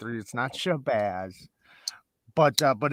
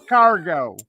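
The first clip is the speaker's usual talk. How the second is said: "Chicago" as "Chi-car-go", louder and punchier; Chicago accent; 4 semitones higher, 7 dB louder than usual. Shown as a demonstration. Showing his own take on the word, loud Chicago accent. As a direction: bark "Chicago" with a broad Chicago a and r. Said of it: "Say Chicago in your most Chicagoan accent".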